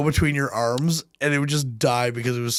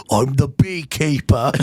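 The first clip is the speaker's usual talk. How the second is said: mock action hero; 4 dB louder, slower than usual. Mock Jason Statham action line.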